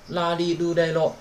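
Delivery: 啦哩、噜、嘞、喽 with clear l sounds, la li lu le lo; even, measured recital of 啦哩、噜、嘞、喽; la-row contrast. Shown as a demonstration. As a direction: model 啦哩、噜、嘞、喽 to set l apart from n. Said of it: "很好分的啊".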